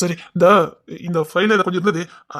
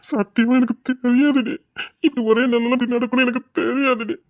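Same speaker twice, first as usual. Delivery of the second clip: anguished pleading. Acted. Husband swearing to his wife he didn't know, anguished pleading. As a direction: stretch the words in helpless regret.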